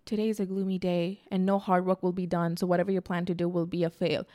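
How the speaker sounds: soft, flat-toned doom forecast; gloomy app voice. Retold or imitated. CoStar app reading her morning forecast, softly ominous. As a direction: read it like a grim oracle. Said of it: "it would be like".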